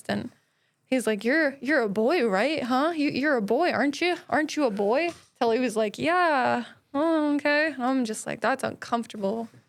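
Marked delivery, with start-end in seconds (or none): 1.2-5.1 put-on angry, pissed-off man's voice. Retelling a man at the Dollar Tree yelling at a kid: imitating an angry man. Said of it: "And he's just like so pissed".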